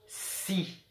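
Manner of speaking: "si" with a long sustained s; teacher's dictation, "si" slowed sound by sound; drawn-out sounds. Shown as a demonstration. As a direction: stretch the s of "si" before the vowel. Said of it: "il faut bien écouter le son des lettres".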